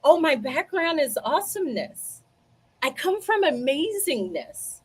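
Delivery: high-pitched, proudly excited self-quote; retold excitement. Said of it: "I was so excited. I was like".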